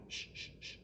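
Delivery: urgent whispered shushing; begging shush. Acted. Grump begs the others to stay quiet outside the shop, whispered. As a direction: hush them, pleading. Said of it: "begged Grump".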